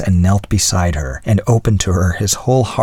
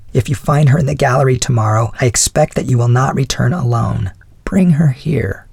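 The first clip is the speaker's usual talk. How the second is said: higher wifely voice, slowing at the end; resolved wife; 5 semitones higher than usual. Acted. Wife telling husband to bring the woman home, higher voice. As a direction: instruct him as his resolved wife. Wife gives her instruction.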